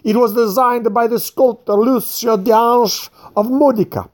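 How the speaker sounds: put-on proud old man, indignant, lecturing the fat one; furious old man. A narrator's reading. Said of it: "broke into furious Italian".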